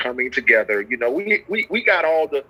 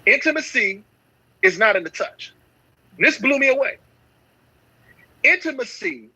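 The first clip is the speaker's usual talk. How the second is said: preaching; 8 semitones higher than usual. Acted. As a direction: preach it, letting each phrase land. Preaching a point with long pauses.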